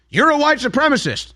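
high sing-song accuser's taunt; mock accusation. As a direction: toss the label like a spell. Accuser repeats stock line.

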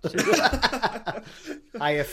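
mock announcer. Mocking friend reading website.

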